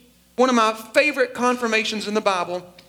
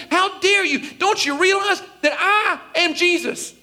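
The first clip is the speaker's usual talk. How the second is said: overdone how dare you; hammed-up outrage; 5 semitones higher than usual. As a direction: play the offended Lord big. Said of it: "Is that what Jesus said?".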